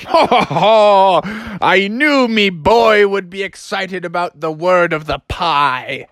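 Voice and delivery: big slow stage laugh, then hearty speech; hammed-up chuckling father; jolly dad. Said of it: "And his dad was like".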